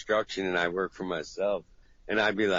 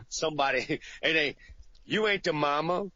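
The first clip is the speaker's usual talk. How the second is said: higher, louder scolding mom voice; mocking the mama's call; 6 semitones higher, 3 dB louder than usual. Friend mimicking a scolding mom calling him home. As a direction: play a scolding mother on the phone, then mock her. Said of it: "You're like".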